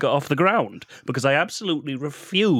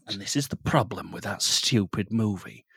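Babadook voice. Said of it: "you've nailed this voice".

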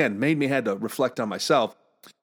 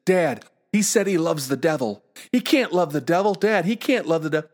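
lightly voiced, higher-pitched tattling child; alarmed seven-year-old; 4 semitones higher than usual. Seven-year-old interpreting for his dad, mock-alarmed. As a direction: protest to Dad in mild mock panic.

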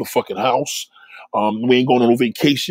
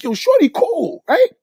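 much higher and slow, a fake-tearful plea; smitten customer; 13 semitones higher, 3 dB louder than usual. Man flirting with the cashier, slow, high and pleading. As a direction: stretch it out like a hopeful flirt. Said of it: "'cause now you like".

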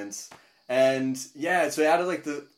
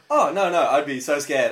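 mildly hammed-up alarm, louder; mock dread; 3 semitones higher, 9 dB louder than usual. Friend reacting to his first gig, mock scared. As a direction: imitate a friend recoiling, louder.

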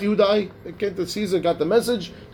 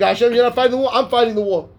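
mildly boastful, pitched up at the start; a little haughty; 4 semitones higher, faster than usual. Retold or imitated. Teacher voices the proud fighter addressing Hashem, a little haughty. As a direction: lightly imitate someone taking all the credit. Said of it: "Got a little haughty".

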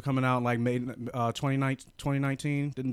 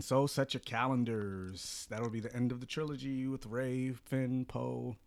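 newscaster voice. Acted. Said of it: "I like your newscaster voice".

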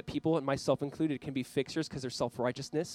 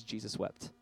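hushed, solemn; 6 semitones lower, 10 dB quieter, slower than usual. A narrator's reading. Solemn reading of short verse.

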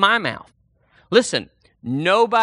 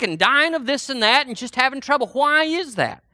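raised-pitch litany of grievances; indignant mock complaint; 6 semitones higher than usual. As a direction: pile up the protest as an aggrieved believer. Carries on the believer's complaint.

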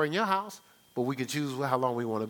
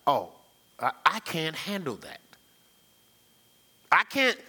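humble self-deprecation. Shown as a demonstration. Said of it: "I'll say it like".

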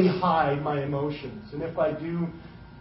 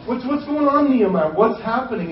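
high, pressing question to his servant; the king presses Nehemiah, high and insistent; puzzled king; 5 semitones higher than usual. Retold or imitated. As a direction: raise it up like a baffled king. King demands an answer.

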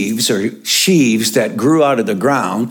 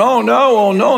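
mock groaning; 11 semitones higher, 4 dB louder than usual. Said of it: "started moaning and groaning".

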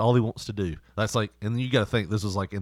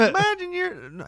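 Gallagher impression; slower than usual. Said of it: "how did Gallagher sound?".

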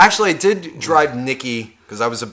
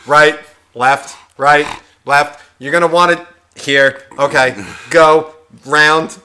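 louder, bossy barked directions; mock instructor directing; 4 dB louder, slower than usual. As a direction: call out each turn like a pushy driving coach. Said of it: "He was just like".

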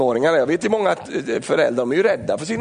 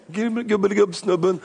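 teasing greeting; 5 semitones higher than usual. Retold or imitated. Greeting sulky teen.

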